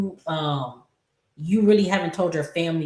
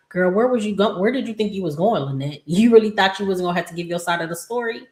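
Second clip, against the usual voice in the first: sassy; 3 semitones higher than usual. Retold or imitated. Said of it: "And it's just like".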